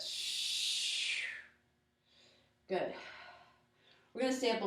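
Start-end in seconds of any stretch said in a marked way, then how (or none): 0.0-1.2 long unvoiced breath out through the teeth; exhale hiss. Shown as a demonstration. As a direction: blow the air out on a steady shh. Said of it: "Exhale, lift".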